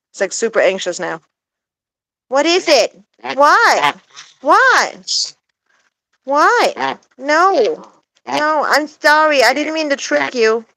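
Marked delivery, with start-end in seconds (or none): 2.3-10.6 high, coaxing questions to the bird; high pet talk. Real, not acted. To her anxious parrot, high coaxing pet voice. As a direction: pitch way up and coax him.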